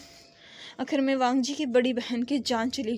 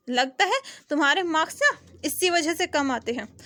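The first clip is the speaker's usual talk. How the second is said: light laughing mockery; laughing tease; 3 semitones higher than usual. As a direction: chuckle through the jibe. Laugh heard while teasing.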